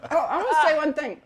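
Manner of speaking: talking through a mouthful of cookie; words round a bite of food; mouth full. Real, not acted. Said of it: "I'm sorry, my mouth is full".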